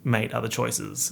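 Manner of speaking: slightly stilted British blurb reading. Shown as a demonstration. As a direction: read it aloud, lightly British. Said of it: "I'm sorry for reading so weirdly".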